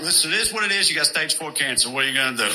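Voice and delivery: blunt Bronx doctor, lightly put on; a hint of a Bronx tough guy, shrugging; casual Bronx accent, mildly voiced. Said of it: "some meatball from the Bronx".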